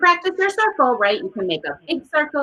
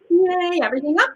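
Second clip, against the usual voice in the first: higher cheery "yay"; happy demo; 5 semitones higher, faster than usual. Shown as a demonstration. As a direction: cheer it upward for small kids. Demonstrating happy again.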